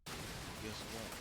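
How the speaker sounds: slow secretive whisper. Acted. Confiding a secret about ego.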